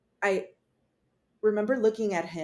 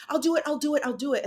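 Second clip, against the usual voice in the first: pleading; 6 semitones higher, much faster than usual. Retold or imitated. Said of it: "not screaming".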